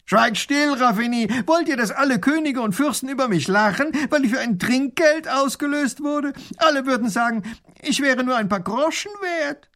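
a vain tiny ruler who feels insulted; offended little grand duke. Acted. Little grand duke shouts over, offended by the ransom.

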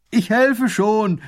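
slow high loud call across the field; slow loud call from far off; calling from afar. Acted. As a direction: shout from a distance. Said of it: "ruft er von Weitem".

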